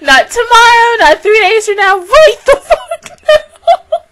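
high, loud, laughing-tearful mock command; imitated bossy order. Show demanding she weep immediately, mock bossy. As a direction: hammer it out high, slowing on the last phrase. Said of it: "So it's like".

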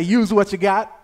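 loud call for the congregation to repeat; loud prompt. Shown as a demonstration. Preacher tells listeners to repeat the title, loud prompt. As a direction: call the phrase out to the room. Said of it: "Say it with your chest".

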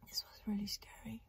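soft whisper, still scared; shaken whisper. Real, not acted. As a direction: breathe it out still trembling inside. Still shaking after the scare.

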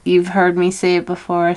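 talking while doing lip liner; while putting on lipstick. Real, not acted. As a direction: speak while lining the lips. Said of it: "I'm trying to talk and do lip liner".

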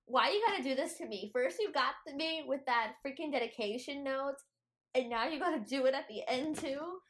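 playful tearful protest at the book's author; mock exasperated. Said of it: "And I was like".

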